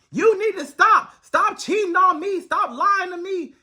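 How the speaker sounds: mock angry girlfriend. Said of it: "they put their hands on a man".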